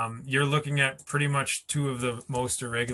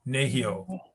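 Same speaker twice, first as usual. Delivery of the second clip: NEhio, weight on the opening NE; stress on first syllable. Shown as a demonstration. Teacher showing where nehio is stressed, first-syllable stress. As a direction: lean on the NE of nehio, letting the rest follow. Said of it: "this syllable is stressed".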